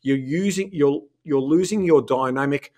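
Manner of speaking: lecturing the politicians, fired up; talking to politician voice. Real, not acted. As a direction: speak straight to the government. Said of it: "you had your talking to politician voice on at the end there".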